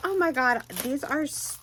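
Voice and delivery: ordinary talk, nothing marked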